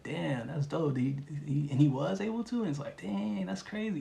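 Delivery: impressed listener who learns why the wall was punched; amazed. Pretend. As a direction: gush like you just heard something wild. Imagined listener amazed by the story.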